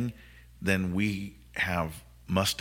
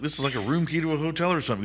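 puzzled; 7 semitones higher, much faster than usual. Retold or imitated. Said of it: "I was like".

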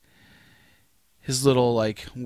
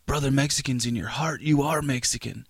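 put-on Mexican accent. Coworker encouraging his friend, light Mexican accent. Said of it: "He's like".

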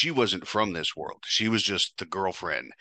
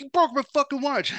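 high, loud outraged yell; angry yell; 4 dB louder than usual. Retold or imitated. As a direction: shout the accusation at the cop. Yelling at cop over watch.

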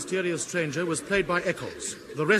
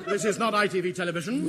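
quicker, laughing repeat; faster repeat; faster than usual. Acted. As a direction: rattle it off again, laughing. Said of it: "repeated line".

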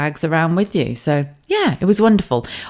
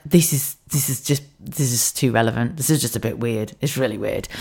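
softer, lower stunned murmur; hushed awe; 4 semitones lower, 5 dB quieter than usual. Retold or imitated. Stunned by the card, dropping to a hushed murmur. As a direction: let it drop away in disbelief.

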